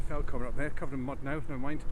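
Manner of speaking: muffled, mic inside a jacket. Real, not acted. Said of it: "sorry about the muffled sound".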